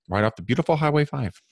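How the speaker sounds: sarcastic fake admiration for a highway. Real, not acted. Telling a coach about father's hometown highway, very sarcastic. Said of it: "I say that very sarcastically".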